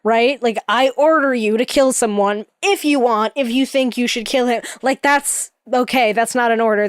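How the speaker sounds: usual speaking voice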